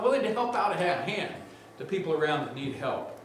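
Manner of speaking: usual speaking voice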